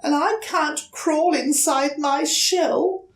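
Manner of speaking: put-on high, hesitant small-child voice; young turtle politely asking a stranger for help; timid little turtle. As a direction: ask shyly, a little scared. Franklin asks the duck for help.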